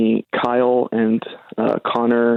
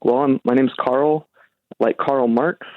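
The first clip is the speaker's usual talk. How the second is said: slow introduction; slower than usual. Shown as a demonstration. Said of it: "introduce myself as".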